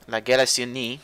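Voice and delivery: La Galassonnier as "la ga-leh-see-uh-nee", French style; French pronunciation. Shown as a demonstration. Reviewer showing how you say La Galassonnier in French, French pronunciation. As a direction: say La Galassonnier the French way, ending in "nyee". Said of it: "how you say it in French".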